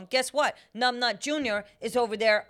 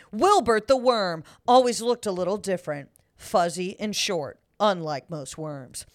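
lightly done dramatic trailer narrator; a hint of movie trailer voice; trailer voiceover; 4 dB louder than usual. Shown as a demonstration. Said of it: "trailer voiceover".

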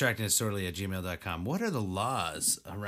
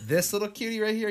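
high-pitched dog voice; 11 semitones higher, 5 dB louder than usual. Real, not acted. Talking to her dog.

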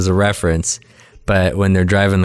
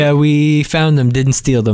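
slow, higher Walken cadence; Christopher Walken impression; 6 semitones higher than usual. The family's reply, voiced in a Walken impression. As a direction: draw it out with odd pauses like Walken. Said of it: "apparently he's Christopher Walken also. That's how he spoke".

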